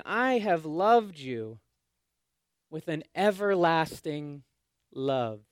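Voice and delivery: slow, tender, each word weighed; slow tender declaration. Acted. Pastor quoting God to the exiles, slow and tender. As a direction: say it slowly like a promise. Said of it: "He's saying".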